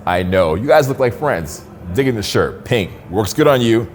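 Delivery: upbeat, assertive greeting to strangers; friendly but firm opener, owning the moment; positive dominance. Shown as a demonstration. Coach demoing to students a positive dominant greeting. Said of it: "I'm, like, dominant in my voice tone".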